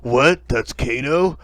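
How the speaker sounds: mild mock disgust; indignant character. Imagining a different reaction to Kano, mock indignant. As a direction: react with hammed-up disbelief and dislike. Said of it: "instead of like".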